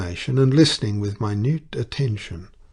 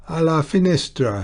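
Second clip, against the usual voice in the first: excited cry of recognition; exclaiming; 7 semitones higher, 4 dB louder than usual. A narrator's reading. Old clergyman exclaims the painting's name to McMaster, excited. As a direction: lift it high, suddenly remembering. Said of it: "he exclaimed".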